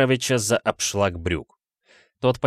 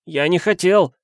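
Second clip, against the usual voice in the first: higher, louder desperate repeat; frantic insistence; 9 semitones higher, 5 dB louder than usual. A narrator's reading. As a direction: insist madly, pleading. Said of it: "с безумной настойчивостью повторял". (безумно настойчиво)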